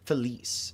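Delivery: "Felice" as fuh-LEE-s, ending in an s; corrected pronunciation. Shown as a demonstration. Streamer quoting viewers' correction, "Felice" said fuh-LEESS. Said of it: "I was pronouncing it wrong".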